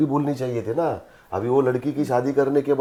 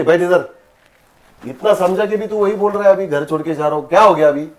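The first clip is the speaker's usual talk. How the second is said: much higher, louder angry father; angry scolding; 7 semitones higher, 6 dB louder than usual. Acted. Father scolding son who wants to leave home, loud and high. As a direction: order him to sit and scold hard.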